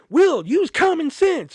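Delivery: high, slow, loud sneering imitation of the manager; mocking the manager. Manager lecturing Will, high and slow mock scold. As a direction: drag it out like a snotty boss.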